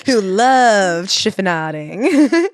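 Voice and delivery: very slow, drawn-out fond tease; mock adoring. Host finishing her co-host's joke, slow mock adoration. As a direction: savour each word like a fan. Gushing over the author with friend.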